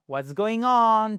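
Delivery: slow "What's going on" demo; slow model phrase. Shown as a demonstration. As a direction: lay it out slowly for learners. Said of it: "teacher models phrase slowly".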